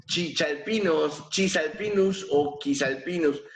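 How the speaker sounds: chisalpinus with a CH, quisalpinus with a K; alternative pronunciations. Shown as a demonstration. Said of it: "cualquier pronunciación".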